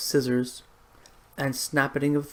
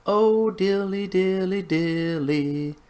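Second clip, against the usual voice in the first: sighing, drawn-out lament; a wistful sigh of a lonely cat; melancholy cat voice; 4 semitones higher, slower than usual. A narrator's reading. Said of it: "sighed Simpkin".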